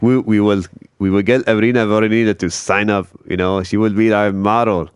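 light Russian accent, lightly put on. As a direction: imitate a Russian accent, not too heavily. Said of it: "That's my Russian accent".

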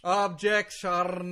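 put-on loud, drawn-out Russian-accented interjection; a lawyer's slow, booming objection in a Russian accent. Russian lawyer interrupts the podcast host, loud Russian accent. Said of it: "Russian accent".

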